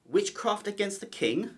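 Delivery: ally appalled at the queen's witchcraft plan; shocked disbelief. Acted. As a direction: recoil at the idea of witchcraft.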